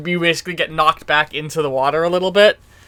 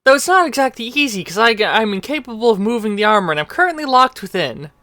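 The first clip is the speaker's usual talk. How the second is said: higher, fast apologetic explanation; Maroon's voice; 4 semitones higher, faster than usual. Acted. Maroon explains he cannot move the armor, higher and hurried. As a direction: rattle it off, stuck inside the armor. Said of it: "from Ma-, Maroon".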